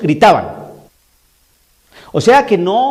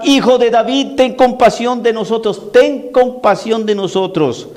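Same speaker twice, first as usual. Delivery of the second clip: raised, higher-pitched plea, slowing at the end; pleading shout; 3 semitones higher than usual. Acted. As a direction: cry out for mercy as a blind beggar would. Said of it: "dos ciegos que gritaban".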